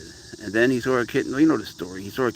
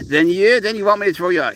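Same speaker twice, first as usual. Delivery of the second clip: much higher and louder, excited; 8 semitones higher, 7 dB louder than usual. Real, not acted. Owner turning excitedly to the cat, higher and louder. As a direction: burst out eagerly to the cat.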